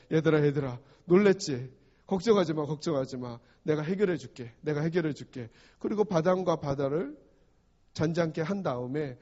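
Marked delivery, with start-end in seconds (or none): 0.1-5.5 lower-pitched, gently reassuring role-play; calming reassurance. Acted. Preacher playing Jesus to frightened disciples, calmly reassuring. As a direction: soothe them as an imagined Jesus would. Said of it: "마음을 안정시키고".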